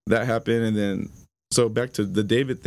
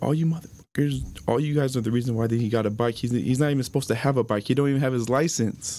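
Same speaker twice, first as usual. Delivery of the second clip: mild replayed anger, pitched up; retold cussing out; 3 semitones higher than usual. Blaming his brother's friend for the bike, mildly angry. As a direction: replay chewing someone out, without raising the volume. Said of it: "I cussed David out".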